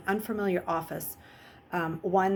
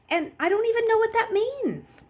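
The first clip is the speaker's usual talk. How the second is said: higher, louder rush of questions; anxious boy; 9 semitones higher, 4 dB louder than usual. Acted. Luke questioning Jackal Boy, higher and urgent. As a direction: pour out the worries.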